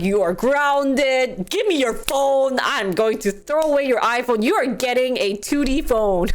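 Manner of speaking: stern parent. Pretend. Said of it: "I'd be saying that".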